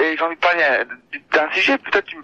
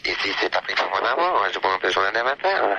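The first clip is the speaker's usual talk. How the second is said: PPDA; 8 semitones lower than usual. Acted. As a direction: drop the voice and draw out the headlines. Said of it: "Non, c'est P D A". (voix grave et lente de présentateur du vingt heures)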